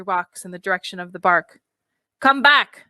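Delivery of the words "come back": sharp. Acted. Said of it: "said Maxim sharply".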